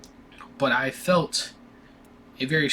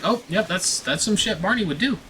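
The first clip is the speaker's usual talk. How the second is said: high, sing-song mock agreement; lightly hammed-up everyone-knew tone; mock knowing crowd; 9 semitones higher than usual. School staff agreeing Barney did it, high mock knowing voice. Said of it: "everybody was like".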